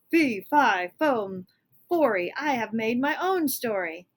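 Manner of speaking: loud, proud giant chant; booming giant. Acted. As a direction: boom out the rhyme.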